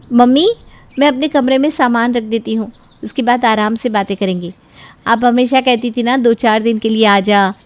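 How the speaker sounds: eager daughter home at last; lightly voiced daughter. Daughter arriving at her mother's, lightly brighter voice.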